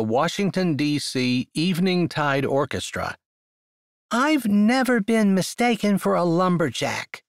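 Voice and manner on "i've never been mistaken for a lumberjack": high, stiff and clipped; stiff and unsmiling. Acted. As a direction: say it coldly, no smile. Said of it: "unable to soften her words".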